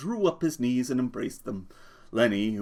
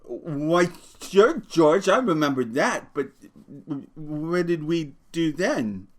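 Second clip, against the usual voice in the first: delighted; 6 semitones higher, 4 dB louder, slower than usual. Acted. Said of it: "delighted smile".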